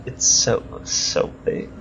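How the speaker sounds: whispered, savouring each word; gloating whisper. Acted. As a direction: breathe it out like a delicious secret. Crosscut gloats in hushed voice.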